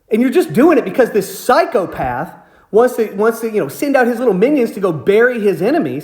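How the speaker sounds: indignant, challenging retelling of a confrontation; retold snapped rant. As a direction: demand answers with contained anger. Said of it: "I just snapped".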